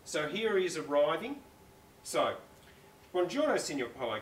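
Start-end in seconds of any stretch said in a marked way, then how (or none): 3.1-4.2 Buongiorno, Signor Polo with a light Italian lilt; Italian greeting. Acted. Federica greets Mister Chicken, light Italian accent. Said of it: "called Federica".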